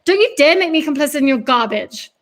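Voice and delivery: loud, furious threat; spitting with rage. Acted. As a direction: spit the words out in rage. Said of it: "spitting with rage".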